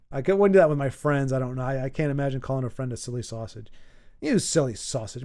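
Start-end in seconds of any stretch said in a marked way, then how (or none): 4.2-5.2 fond teasing. Shown as a demonstration. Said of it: "Maybe it's how you say it".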